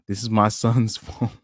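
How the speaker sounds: words broken by laughter; can't keep a straight face; laughing quote. Retold or imitated. Quoting the mother's post while laughing. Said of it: "talking about".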